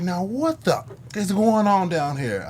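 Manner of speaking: high, slow mock-indignant mother; drawn-out, high-pitched scolding disbelief; imitated outraged mom. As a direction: play a mom catching kids red-handed. Mom discovers the basement party.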